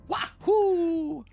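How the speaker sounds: high, loud cheering wahoo; echoed wahoo. Real, not acted. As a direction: shout it back with glee.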